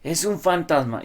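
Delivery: high, slow mock scream of fear; a retold terrified yell; terrified cry. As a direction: cry out like a frightened disciple. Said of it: "que gritaron aterrados de miedo".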